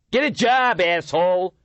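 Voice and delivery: high loud insult; young man shouting abuse at the homeless leader. A narrator's reading. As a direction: bellow the insult. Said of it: "he shouted at the leader".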